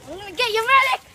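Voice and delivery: loud call for a medic; man down shout. Pretend. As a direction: yell for the medic when hit. Calling for medic.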